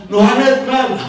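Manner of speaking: high, loud mimicked call to a vendor; imitated shouting. Woman shouting to the snack seller from her car, imitated yell. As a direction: mimic a customer yelling her order from the car. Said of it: "Terus dia teriak lagi".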